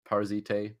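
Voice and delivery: Parasite ending in a "tay" sound; alternate French pronunciation. Shown as a demonstration. Commentator attempting a French runner name, alternate pronunciation. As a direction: say Parasite as "par-zee-TAY". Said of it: "French names, you know, pronounce".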